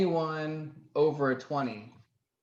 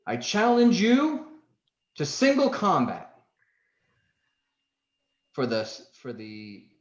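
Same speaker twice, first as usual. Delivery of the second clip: louder, higher formal challenge; 3 semitones higher, 7 dB louder than usual. Acted. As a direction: call out defiant and proud. Woman challenges orcs.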